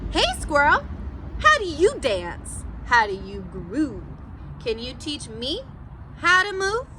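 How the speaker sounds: a lightly voiced, eager cool cat; silly Pete the Cat voice. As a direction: Pete calling out to his friend to learn. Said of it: "my silly Pete the Cat voice".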